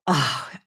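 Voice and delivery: long falling sigh of relief; relieved sigh. Acted. Seeker imagining the end of all the digging, relieved sigh. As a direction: sigh out as if finally arriving. Acting out relief at finally arriving.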